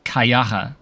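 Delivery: Kayara in a camp German accent. Shown as a demonstration. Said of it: "said it in a very German accent".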